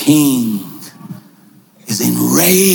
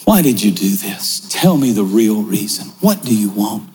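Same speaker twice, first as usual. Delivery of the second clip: the king speaking; 7 semitones lower than usual. Acted. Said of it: "The king turns and says".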